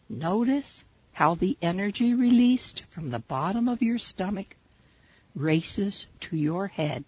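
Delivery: soothing meditation teacher voice; guided meditation. Acted. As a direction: lead them gently through the breath. Leads a breathing meditation.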